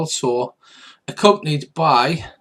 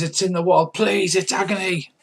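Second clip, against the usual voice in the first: bandit begging in pain; 5 semitones higher than usual. Acted. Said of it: "Yes, he says".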